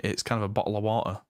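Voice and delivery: quick, rough Northern English "bottle of water"; dropping into a broad Northern English accent; casual Northern English accent, fast. Shown as a demonstration. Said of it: "Northern English rough accent".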